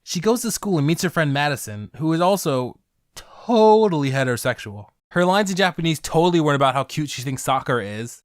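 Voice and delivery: normal talking voice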